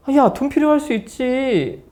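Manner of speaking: mock offhand mother; dismissive mother. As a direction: brush it off casually. Mother brushes off daughter.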